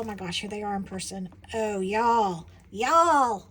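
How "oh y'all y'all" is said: loud delighted cry to viewers; thrilled exclaim. Real, not acted. Seeing her new tiles, loud delighted cry. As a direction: burst out in delight.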